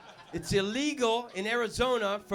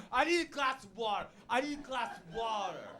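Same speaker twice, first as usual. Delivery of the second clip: a hint of a parched plea; lightly voiced thirsty beg; parched desert crawler. Comic playing man crawling from desert, mild pleading.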